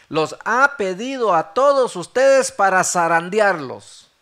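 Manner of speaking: loud, emphatic retold warning; forceful declaration, well above talking volume; proclaimed warning. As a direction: drive the warning home to everyone. The Lord's warning, repeated emphatically.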